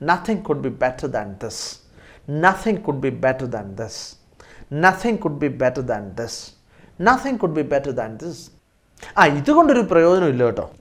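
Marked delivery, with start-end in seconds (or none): 0.1-8.4 slow model sentence. Shown as a demonstration. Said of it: "ഇതിനേക്കാൾ നന്നായിട്ട് ഇനി ഒന്നുമില്ല".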